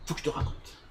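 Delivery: soft, voiceless confiding quote; hushed retold urge. Friend eager to tell his story, hushed imitation. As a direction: say it under your breath.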